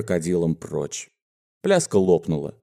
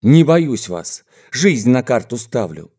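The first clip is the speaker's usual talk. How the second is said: frenzied defiance; 2 semitones higher, 3 dB louder than usual. Acted. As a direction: hurl a challenge at the gang. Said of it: "неистово заорал Амелька". (яростный вызов во весь голос)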